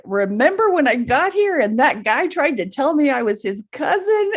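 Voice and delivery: rising into a laugh on cousin; laughing recall. Retold or imitated. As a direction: tell it while cracking up. Recounting joke, laughing.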